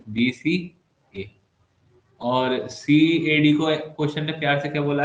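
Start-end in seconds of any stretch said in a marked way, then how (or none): 0.1-1.3 बीसीए stretched very slowly, rising at the end; drawn out slowly. Shown as a demonstration. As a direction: draw out बीसीए slowly for emphasis.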